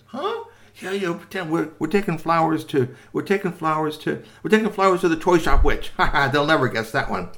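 high, squeaky little toy voice, giggling at the plan. Acted. Toy tells the boys the plan in a high squeak.

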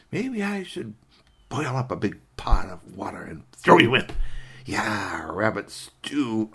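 lightly voiced savoring fox; hungry fox. Fox dreaming of rabbit stew, mildly greedy relish. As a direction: relish each imagined ingredient, lingering.

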